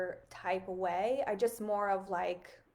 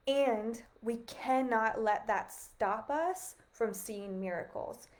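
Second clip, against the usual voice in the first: slow, choked-up words; holding back tears; getting emotional; slower than usual. Real, not acted. Slow and emotional, telling her livestream viewers to keep seeing miracles. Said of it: "I don't know why I'm getting emotional".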